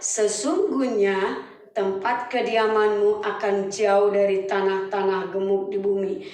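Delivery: a father pronouncing his son's fate; solemn Isaac. Acted. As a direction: pronounce it like an old patriarch.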